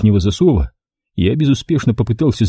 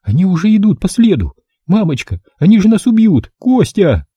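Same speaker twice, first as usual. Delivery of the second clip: high, rising panic; high panicked female scream at the end; terrified woman; 9 semitones higher than usual. A narrator's reading. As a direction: cry out in fear.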